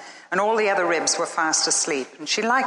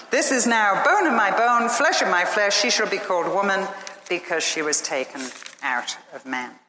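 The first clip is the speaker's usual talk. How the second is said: joyful. Acted. Adam exults at seeing woman.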